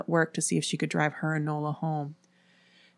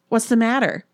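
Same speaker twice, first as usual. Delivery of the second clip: raised, louder worried question; alarmed; 6 semitones higher, 6 dB louder than usual. A narrator's reading. Erin questioning her panicked friends, alarmed. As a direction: ask with urgent alarm. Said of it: "Erin asked in alarm".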